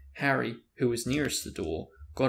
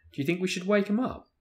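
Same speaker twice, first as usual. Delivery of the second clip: awkward; 9 semitones higher, faster than usual. A narrator's reading. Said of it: "Ron asked awkwardly".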